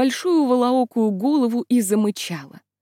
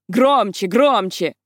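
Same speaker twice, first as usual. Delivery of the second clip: barking command; 2 semitones lower, 4 dB louder, slower than usual. Acted. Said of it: "гаркала".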